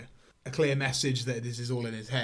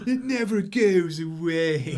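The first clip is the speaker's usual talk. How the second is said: slow, loud, much higher eerie moan of a madman; hammed-up imitation of a deranged man droning on; creepy man; 5 semitones higher, 7 dB louder, slower than usual. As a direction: drag each word out, loud and high, like a man unhinged. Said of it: "He's like".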